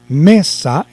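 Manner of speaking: "mesa" in two emphatic beats, me, sa; split into syllables. Shown as a demonstration. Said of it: "entonces yo digo mesa". (mesa marcando cada sílaba)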